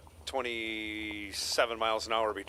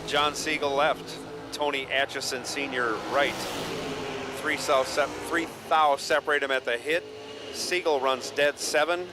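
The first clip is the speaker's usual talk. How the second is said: race announcer. Acted. Live drag race calling.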